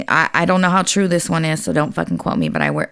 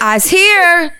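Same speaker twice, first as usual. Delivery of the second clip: put-on very high, loud little-kid yell; yelling toddler; 12 semitones higher, 5 dB louder than usual. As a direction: holler it out like an excited small child. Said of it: "She yells".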